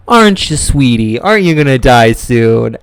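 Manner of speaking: slow, cooing imitation of an owner; imitated pet talk. Cat owner to his dying cat, cooing. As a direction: draw it out like talking to a pet.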